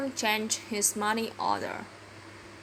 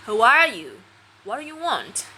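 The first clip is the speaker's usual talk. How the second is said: sharp loud challenge; 2 semitones higher, 6 dB louder than usual. Acted. Woman at door challenging him.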